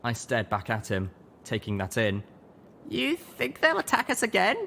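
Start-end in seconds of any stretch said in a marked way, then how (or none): 2.9-4.6 high, tense question; young mare asking. A narrator's reading. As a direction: ask it hard. Littlepip voiced.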